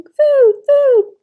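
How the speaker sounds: put-on high, tiny baby-bird peep; a high, tiny newborn peep calling for mama; tiny peeping gosling. A narrator's reading. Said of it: "That tiny voice".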